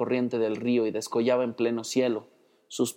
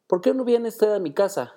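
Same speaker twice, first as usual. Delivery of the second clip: compassionate invitation; 9 semitones higher than usual. A narrator's reading. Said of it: "la mozuela compasiva".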